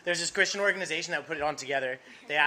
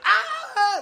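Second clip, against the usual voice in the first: high, loud imitated shriek through a laugh; mock crowd shriek; 7 dB louder than usual. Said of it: "Everybody just went".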